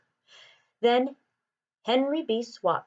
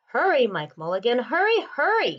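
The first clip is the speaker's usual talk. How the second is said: put-on little boy shouting; 2 semitones higher than usual. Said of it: "shouted the little boy".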